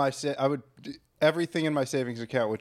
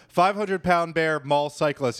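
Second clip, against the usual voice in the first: slow headline read; slower than usual. Shown as a demonstration. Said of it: "posted a headline ... that said".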